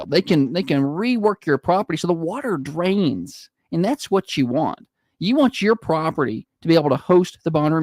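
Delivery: upbeat sponsor read. Acted. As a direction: read the local ad spot. Reads a sponsor ad.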